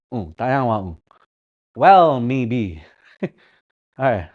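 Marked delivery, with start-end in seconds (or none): 1.8-2.8 slow careful phrase. Shown as a demonstration. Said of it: "Gotta learn how to talk like that".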